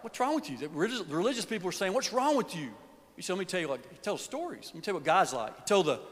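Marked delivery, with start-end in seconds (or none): 0.0-0.6 scornful Pharisees. Retold or imitated. Pharisees confront Jesus. 1.9-2.7 scornful Pharisees. Retold or imitated. Religious people scold Jesus.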